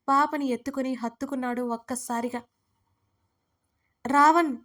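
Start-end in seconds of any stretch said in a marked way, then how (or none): 4.1-4.6 raised, urgent cry of a name; narrated shout. A narrator's reading. Sreeda calls out as she is seized, shouting. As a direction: call out for help, fairly contained. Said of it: "శ్రీద గట్టిగా అరిచింది".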